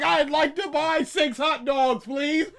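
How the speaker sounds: loud, slow, over-formal shouted order; mock yelling. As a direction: shout a polite order absurdly loudly. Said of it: "Why are you yelling this?".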